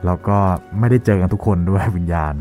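ordinary talk

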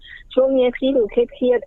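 slow gentle line from wife to stressed husband; gentle neutral wording. Shown as a demonstration. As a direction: ease it out slowly and kindly. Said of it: "ไอ้คำว่าเครียดๆ มันฟังดูเป็นกลางไง".

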